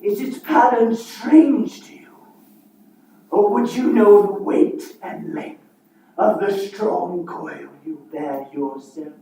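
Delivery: ghostly Marley voice; booming voice of a dead partner; playing both parts. Marley's ghost speaks of chains.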